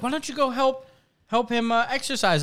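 high, sing-song owner to pet; coaxing dog owner. Retold or imitated.

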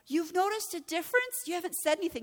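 re-enacted shocked wife; retold astonishment. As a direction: confront him in mock disbelief. Acted surprise at husband's remark.

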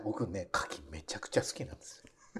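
whispering. Real, not acted. Confessing aside during chat.

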